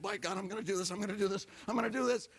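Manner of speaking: building resolve, pitch climbing; psyching himself up. Retold or imitated. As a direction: work yourself up to the deed, rising each time.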